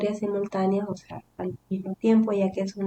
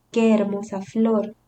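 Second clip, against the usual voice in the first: slow, louder exclamation of admiration; demonstrated admiration; 5 dB louder, slower than usual. Shown as a demonstration. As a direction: show a measured exclamation of wonder. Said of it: "para expresar admiración". (admiración de ejemplo, pausada y más fuerte)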